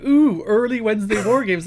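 high, loud excited gushing; excited fan voice. Retold or imitated. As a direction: gush like a thrilled fan. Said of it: "people were like".

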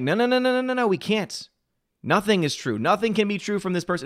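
high, frantic repeated no's; mock the critics' panic in a high voice.

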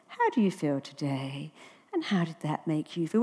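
a soft, lightly voiced therapist drone; imitating a bored therapist, understated; mock psychiatrist. Mocking how psychiatrists talk to patients, softly.

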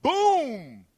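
high, punchy Boom; hype shout. Acted. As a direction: slam the word Boom like a radio drop. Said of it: "in my V J voice".

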